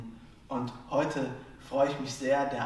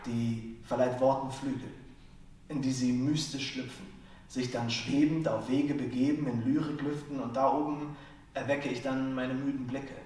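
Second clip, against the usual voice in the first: rhythmic, rhyme-driven stage delivery; slam poetry. Acted. Slam poet performs his piece on wordplay, rhythmic spoken word.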